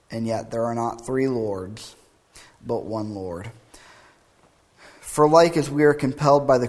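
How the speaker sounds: emphatic, measured formal reading; creed recitation. Acted. Preacher reading the Athanasian Creed to the congregation, formal recitation. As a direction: proclaim each clause in a steady cadence.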